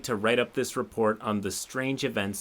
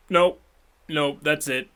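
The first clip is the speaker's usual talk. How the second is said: disgusted nope; 4 semitones higher, 5 dB louder than usual. Real, not acted. Disgusted reaction to the story.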